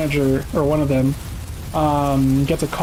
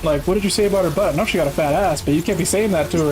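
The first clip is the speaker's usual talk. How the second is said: lightly voiced manager, higher and fast; imitating manager Kenny; 4 semitones higher, faster than usual. The boss scolding him about the girl, quick and raised. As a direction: rattle it off like a flustered boss. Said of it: "Kenny comes back to me and he's like".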